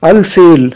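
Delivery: al-fil with a clearly sounded first l; lam pronounced. Shown as a demonstration. Teacher showing the lam is said, audible l in "al-fil". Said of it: "ça se prononce".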